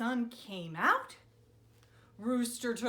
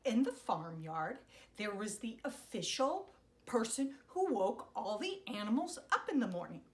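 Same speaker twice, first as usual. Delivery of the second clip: storybook narration; 3 semitones lower, faster than usual. A narrator's reading. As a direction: begin the tale gently.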